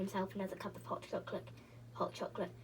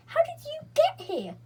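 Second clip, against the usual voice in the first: even higher, loud excited cry; crying out together; 9 dB louder than usual. A narrator's reading. Beth and Franny cry out to Joe, high excited. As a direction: shout it back in joy. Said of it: "cried Beth and".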